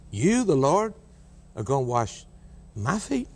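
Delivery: disbelief. Acted. Preacher echoes Peter's disbelief.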